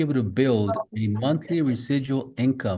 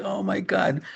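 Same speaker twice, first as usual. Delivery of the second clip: surprised; 9 semitones higher than usual. Retold or imitated. Retold reaction to news.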